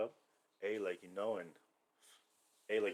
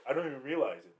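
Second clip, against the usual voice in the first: laughing retelling; 3 semitones higher than usual. Retold or imitated. Retells relatives' answer while laughing.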